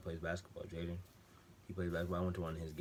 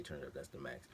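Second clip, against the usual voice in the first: said softer and lower, just reporting the line; plain low retelling; 3 semitones lower, 6 dB quieter than usual. Retold or imitated. Narrator to viewers, a soft flat aside. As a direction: read the meme line flatly, under the breath. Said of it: "He didn't say".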